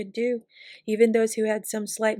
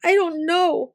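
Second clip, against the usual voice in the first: high, tearful sob; sobbing; 7 semitones higher, 5 dB louder, slower than usual. A narrator's reading. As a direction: sob it out helplessly. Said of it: "sobbed Tim".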